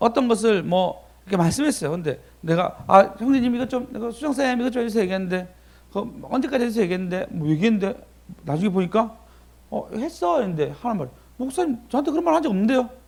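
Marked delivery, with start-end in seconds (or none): 11.4-12.8 high, challenging, argumentative, arguing-back tone. Recounting someone denying what the pastor asked, imitating them arguing back. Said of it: "막 따지듯이 얘기하는 거".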